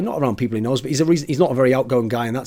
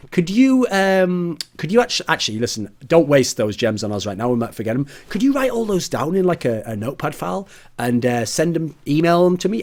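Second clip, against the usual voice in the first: mock politeness; 2 semitones higher than usual. Mocking teammate humoring the analyst.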